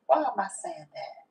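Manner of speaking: breathy whisper to herself; whispered self-question; whispered aside. Real, not acted. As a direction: ask it in a hush.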